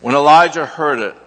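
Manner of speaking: measured, solemn lectern reading; steady, reverent Bible reading from the pulpit; scripture reading. Acted. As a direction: read the passage aloud to the congregation. Reads scripture to congregation.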